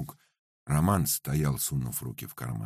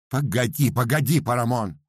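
stern interruption; 9 semitones higher, 6 dB louder than usual. Acted. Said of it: "строго перебил Пётр Игнач".

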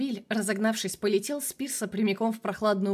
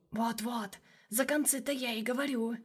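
hushed sly shadow; 3 semitones higher, 6 dB quieter than usual. Acted. Shadow teasing him.

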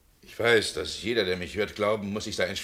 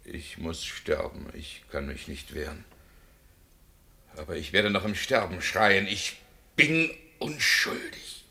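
resigned, then crying out once more; condemned man's last protest; despairing; 3 semitones lower than usual. Acted. Condemned man before death.

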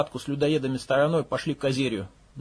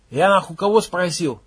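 louder, higher demand; angry raised question; 4 semitones higher, 5 dB louder than usual. Acted. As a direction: raise your voice at them. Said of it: "возвысил голос Макс".

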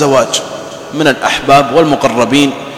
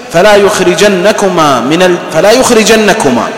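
slow chanted recitation of the verse; Quranic recitation; 3 semitones higher, slower than usual. Real, not acted. Preacher reciting the verse to his congregation, slow and chanted. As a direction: intone the verse slowly, with reverence.

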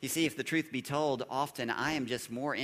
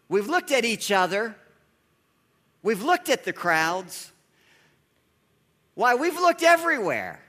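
building exasperation; 3 semitones higher, 6 dB louder than usual. Retold or imitated. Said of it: "disciples' excuses retold, building".

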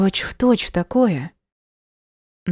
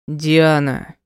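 half-growled name; 2 semitones lower, 3 dB louder than usual. Acted. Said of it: "почти зарычал он".

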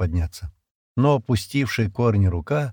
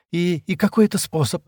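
higher, faltering, fearful question; trembling voice; 9 semitones higher than usual. A narrator's reading. Шира asks Стэн about the only remedy, trembling voice. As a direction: stumble anxiously into the question. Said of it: "дрожащим голосом спросила Шира".

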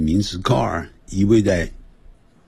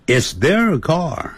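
慢速示范; 7 semitones higher, much slower than usual. Shown as a demonstration. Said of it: "那是他们的车子".

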